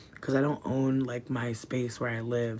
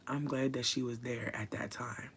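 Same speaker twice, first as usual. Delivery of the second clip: whisper; 5 dB quieter than usual. Real, not acted. Grateful hush about her cat.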